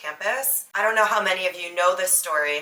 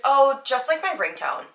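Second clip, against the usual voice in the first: airy, higher mock-casual shrug; 7 semitones higher, 4 dB louder than usual. Mocking the strange roommate's casual reply, higher and airy. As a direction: toss it off like it's nothing. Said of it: "Like, so casual".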